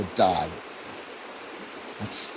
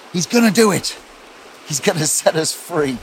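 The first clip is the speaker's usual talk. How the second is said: excited; 5 semitones higher than usual. Acted. Imagining hope of rescue.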